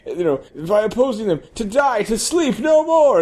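high, lofty stage recital building to a shout; hammy Hamlet. Acted. Stripper declaiming Hamlet to the club, swelling to a shout. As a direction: declaim Hamlet, rising to a big finish.

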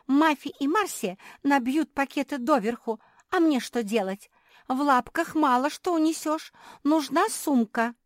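high, loud plaintive puppy voice; puppy whining. A narrator's reading. Naretta begging for a bag, high whining. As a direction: beg for a bag like a small dog.

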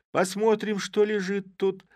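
high, loud eager cry; shouting. A narrator's reading. Girls shouting together as they untie the sack, loud and high. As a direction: girls calling out to open the sack. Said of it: "закричали все".

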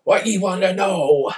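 voiced injured bandit. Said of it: "He's going".

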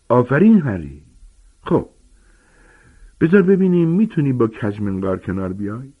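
booming, eager teacher giant; Hagrid explaining. Acted. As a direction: lecture the class like a big friendly giant. Hagrid praises Harry.

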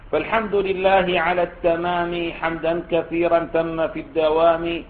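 level, measured chant-like poem reading; verse recitation. Acted. Teacher recites the sheikh's closing praise verses, metrical recitation. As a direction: recite the couplets on an even, sustained pitch.

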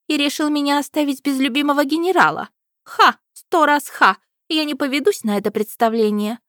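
high, loud scornful princess; accusing princess. A narrator's reading. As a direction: scoff at the trick like a spoiled royal.

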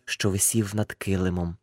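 usual speaking voice

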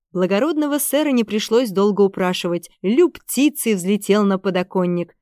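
ordinary delivery, nothing marked

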